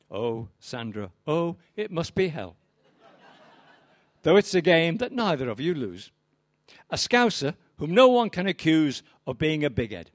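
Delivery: measured, rhythmic poetry reading; poem recital. Acted. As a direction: recite it like a stage poet, each line landing. Reads the Jodie Comer villanelle.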